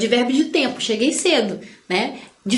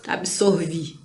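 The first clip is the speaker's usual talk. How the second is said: mock whisper; 6 semitones lower, 5 dB quieter, slower than usual. Mock confession quote.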